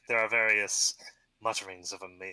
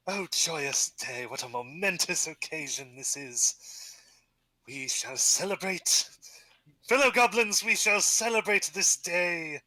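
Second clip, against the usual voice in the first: proclaiming chief; 5 semitones higher than usual. Acted. Goblin chief proclaiming a celebration to his people. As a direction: announce the feast grandly.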